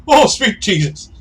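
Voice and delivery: high, loud, drawn-out yelp; hammed-up shout of shock; startled cry. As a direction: cry out as if knocked flying. Punched man flies over bar.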